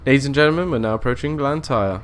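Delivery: mock train announcer. Driver to passengers approaching Blantyre, mock announcer. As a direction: play the conductor announcing the next stop.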